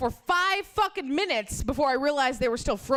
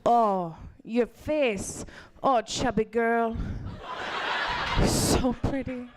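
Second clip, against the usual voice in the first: put-on lower, slow, old Asian lady accent; mock old Asian lady accent; 3 semitones lower, much slower than usual. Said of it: "their English is terrible".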